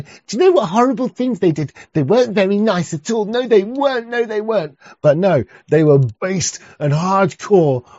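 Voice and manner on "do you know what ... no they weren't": lightly voiced mocking whine, higher and fast; a hint of a sneering parody voice, pitched up; mocking impression. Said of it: "will ever do is go".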